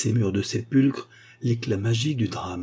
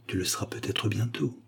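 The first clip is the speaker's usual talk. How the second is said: a hushed whisper, much softer; 8 dB quieter than usual. A narrator's reading. Lover whispering to his mistress, hushed whisper. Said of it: "Il murmura très bas, très bas".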